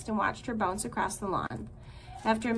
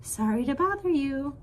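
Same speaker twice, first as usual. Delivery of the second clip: friendly; 4 semitones higher than usual. Acted. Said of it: "in her friendliest voice".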